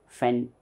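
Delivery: FANTASTIC split as fan, tas, tic; three separate strokes on "Fantastic", pausing between; syllable by syllable. Shown as a demonstration. Teacher counts three mouth openings, syllable by syllable. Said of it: "three times I am opening my mouth".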